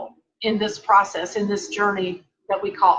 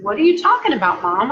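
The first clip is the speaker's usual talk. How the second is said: surprised protest; 4 dB louder, faster than usual. Retold or imitated. Accused of stealing makeup.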